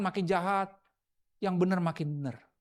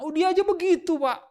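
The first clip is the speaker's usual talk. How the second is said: high, whiny excuse voice; mimicking a follower; 10 semitones higher than usual. Preacher mimics a congregant excusing himself, high whiny excuse. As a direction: play the lazy follower shrugging it off.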